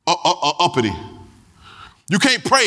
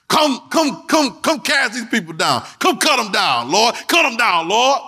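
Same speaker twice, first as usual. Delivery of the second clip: mock prayer; 4 semitones higher, slower than usual. Imitating prayer calling down angels.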